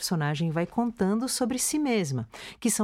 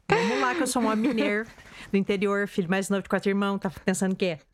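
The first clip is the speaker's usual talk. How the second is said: rural Minas Gerais accent, fast; hammed-up Minas Gerais country accent; caipira accent; faster than usual. Shown as a demonstration. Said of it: "O sotaque mineiro".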